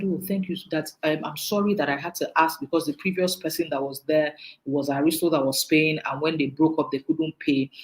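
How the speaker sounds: soft, low retold apology; apologetic. Caller excusing his question about the money, mildly apologetic. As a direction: gently explain yourself, imitating someone sorry for asking. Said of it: "He was quite apologetic".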